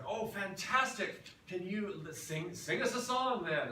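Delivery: a loud, cheery boat captain's mock accent; mock Newfoundland accent. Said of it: "he turned to us and said".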